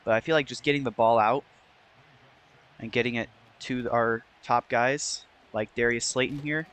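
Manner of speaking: hoarse, losing voice; strained, voice giving out. Real, not acted. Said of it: "I'm losing my voice here".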